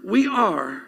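slow, deliberate phrases with pauses between; measured, emphatic dictation pace. Real, not acted. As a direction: spell it out slowly for note-takers. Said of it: "I want you to write this down".

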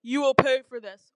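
loud threat from a god; yelling. A narrator's reading. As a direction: yell it as a threat. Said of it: "Zeus yelled".

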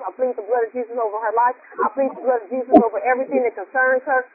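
earnest spoken prayer, steady and reverent. Acted. Preacher praying over Melinda, earnest and reverent. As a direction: lift her up to the Lord in prayer.

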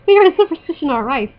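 struggling, put-on Irish accent. Shown as a demonstration. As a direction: read it with an amateur Irish lilt. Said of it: "can't say these words with an Irish accent".

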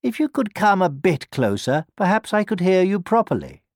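high, coaxing fox voice; wheedling fox, pitched high. A narrator's reading. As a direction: lure the listener closer. Fox coaxes the gingerbread man closer.

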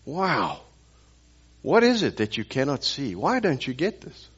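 retold incredulous questions, pitch swooping up on the key words; exasperated disbelief. Preacher voices his younger son questioning guests, exasperated disbelief. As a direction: press the question in mild exasperation.

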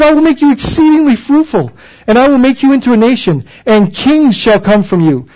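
"I will make you exceedingly fruitful" lifted high and bright; exuberant proclamation. Shown as a demonstration. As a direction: proclaim it with rising joy. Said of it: "he's so redemptive".

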